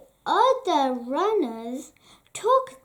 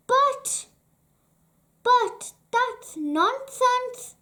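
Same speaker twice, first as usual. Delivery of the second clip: much higher, stammering objection; indignant splutter; 8 semitones higher than usual. A narrator's reading. Mister Rush objecting to the King, high and sputtering. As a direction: sputter it out, outraged. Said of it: "said Mister Rush".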